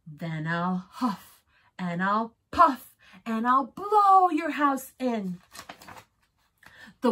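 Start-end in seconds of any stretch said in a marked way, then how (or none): 0.1-5.4 wolf voice. Acted. Wolf threatens the pig.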